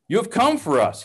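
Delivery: a high, glad cry of reunion; joyful shout. A narrator's reading. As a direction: call out in joy at seeing his brother. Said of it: "he shouted".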